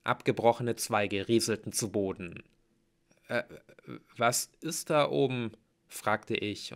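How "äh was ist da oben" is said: hesitant, slightly raised pitch; nervous question. A narrator's reading. Hero asks what is up in the tree, nervously. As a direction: ask uneasily, a touch of fear. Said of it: "meine Knie zitterten".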